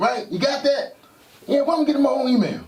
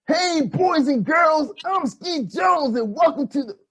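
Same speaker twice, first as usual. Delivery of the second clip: put-on kids show host voice; 5 semitones higher than usual. Puppet host intro, first take.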